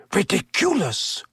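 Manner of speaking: almost lazy. A narrator's reading. Teacher facing the silvery orb, almost lazily. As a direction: toss the spell off without effort. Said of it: "almost lazily".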